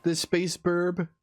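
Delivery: cute little Avali voice. Pretend. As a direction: play the tiny cute space bird.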